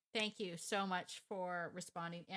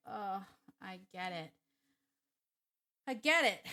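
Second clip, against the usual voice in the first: sympathetic outburst; 8 dB louder than usual. Retold or imitated. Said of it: "I was like".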